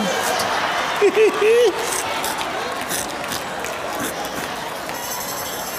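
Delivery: high-pitched laughter; high giggling laugh. Real, not acted. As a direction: laugh high at your own admission. Preacher laughs at own admission.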